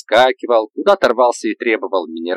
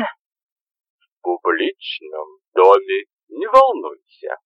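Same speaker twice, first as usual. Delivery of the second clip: put-on drunk slurring; 3 semitones lower, much slower than usual. Заплетающимся языком.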